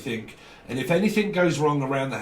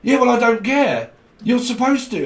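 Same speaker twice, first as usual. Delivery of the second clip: higher, louder huffy insistence; controlling person brushing off refusal; mock stroppy demand; 9 semitones higher, 6 dB louder than usual. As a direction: dig in like a spoilt boss.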